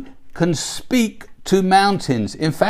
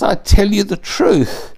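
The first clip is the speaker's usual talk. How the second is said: firmly quoted, with weight on "tell" and "truth"; emphatic; 3 semitones higher than usual. Retold or imitated. Preacher quoting Jesus to show it's a command, emphatic. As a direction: press home "truth" as an emphatic declaration. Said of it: "That's why he's emphatic about it".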